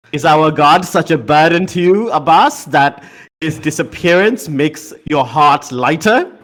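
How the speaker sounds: mildly stern, accusing question. Acted. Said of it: "looks at you quite sternly and says".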